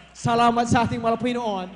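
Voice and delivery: preacher's rousing shout of thanks; loud praise. Real, not acted. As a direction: call out thanks to God at full voice.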